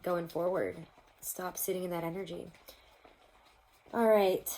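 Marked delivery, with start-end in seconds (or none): 3.9-4.5 whisper. Real, not acted. Settling in to ask Spirit.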